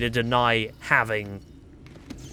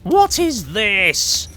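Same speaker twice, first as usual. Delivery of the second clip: slow, higher drawn-out what; 1 puzzled; 5 semitones higher, slower than usual. Real, not acted. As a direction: stretch out the puzzled question.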